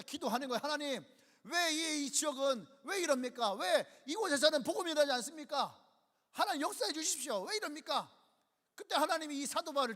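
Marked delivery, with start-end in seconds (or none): 0.6-8.1 Paul's pleading prayer. Acted.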